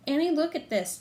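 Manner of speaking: loud call across the hill. A narrator's reading. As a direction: call out to your sister. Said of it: "Jack called".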